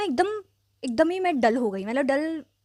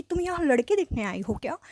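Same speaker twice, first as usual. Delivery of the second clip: judgy; 3 semitones higher than usual. Retold or imitated. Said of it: "एकदम जजी वे में".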